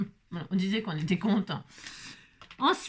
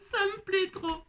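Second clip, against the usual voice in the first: delighted; 9 semitones higher, slower than usual. Real, not acted. Delighted by her craft.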